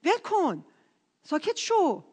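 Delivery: imitated crowd's reprimand; retold scolding. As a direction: shush and dismiss him impatiently. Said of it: "دعواش کردن".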